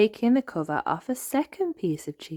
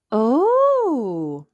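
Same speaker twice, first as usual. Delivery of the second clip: mild wonder; 8 semitones higher, 7 dB louder than usual. Acted. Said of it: "cried Mandy and her friends".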